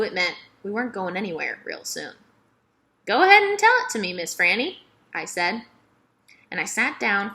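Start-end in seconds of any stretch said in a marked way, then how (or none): 3.1-4.8 high, loud and fast, bursting with eagerness; eager plea. Acted. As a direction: beg for the story like an excited kid. Girl eagerly urging a story.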